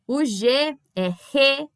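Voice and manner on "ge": "re" said as a breathy "hê"; Spanish G name, "re" with an h-like rasp; G as aspirated R. Shown as a demonstration. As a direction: say "re" like Portuguese initial R. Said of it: "como se fosse um R".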